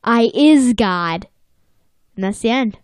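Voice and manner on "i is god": slow, loud, grand pronouncement; slow mock-solemn turtle voice; mock turtle declaration. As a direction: declare it slowly like a silly god. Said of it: "the Visco turtle says".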